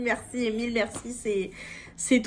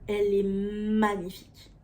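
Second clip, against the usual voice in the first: normal talking voice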